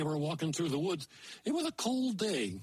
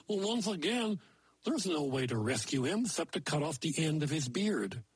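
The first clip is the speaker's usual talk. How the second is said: a lightly voiced moose telling a fairy tale; folksy moose storyteller. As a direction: tell it like a folksy old moose. Maynard Moose tells a folk tale.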